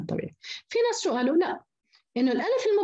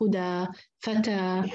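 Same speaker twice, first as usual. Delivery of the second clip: slow demo words; 4 semitones lower, much slower than usual. Shown as a demonstration. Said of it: "هذه ألف".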